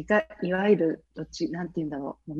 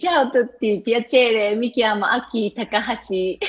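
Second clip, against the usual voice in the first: speaking Italian. Shown as a demonstration. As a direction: say hello in Italian for the host. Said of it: "イタリア語でちょっと喋ってみますね". (イタリア語であいさつ)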